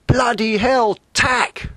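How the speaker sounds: high, loud panicked shout; shouted warning. Acted. Skipper yelling at his crew to tack. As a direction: yell it like the boat's in danger. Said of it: "and he shouted".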